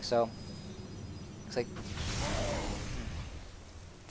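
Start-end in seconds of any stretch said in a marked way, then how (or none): 1.4-4.1 words stretched out by a yawn. Real, not acted. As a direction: talk slowly through a yawn. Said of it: "I don't know why I'm yawning".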